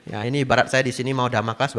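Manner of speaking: normal talking voice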